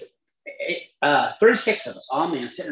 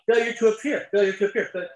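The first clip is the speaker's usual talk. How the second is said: mock the charge in a raised, squeaky voice; mock high voice; 5 semitones higher, faster than usual. Jailer's words parroted back in a raised mocking voice. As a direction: parrot it back higher, disbelieving.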